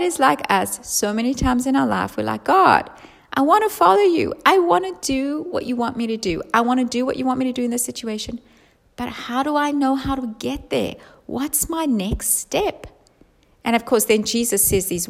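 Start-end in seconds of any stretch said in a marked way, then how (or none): 2.4-12.9 earnest prayer. Acted. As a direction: ask God earnestly for direction. Believer praying, asking God.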